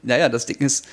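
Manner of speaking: talking just after choking on a drink. Real, not acted. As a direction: speak right after swallowing wrong. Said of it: "hab mich grad verschluckt". (nach dem Verschlucken sprechend)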